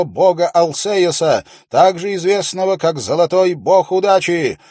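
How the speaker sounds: loud, high proclamation to the crowd; confident royal steward. A narrator's reading. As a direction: read the decree out with confidence. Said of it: "но он звучал достаточно уверенно".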